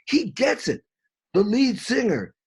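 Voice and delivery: high, animated praise; bursting with admiration; excited. Real, not acted. Explaining to his friend why the singer impressed him, excited. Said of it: "I'm being excited".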